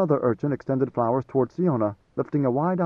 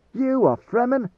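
scornful demand; 10 semitones higher, 3 dB louder than usual. A narrator's reading. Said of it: "Idaho demanded".

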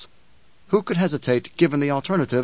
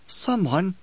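rasping; 4 semitones higher than usual. Acted. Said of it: "she rasped".

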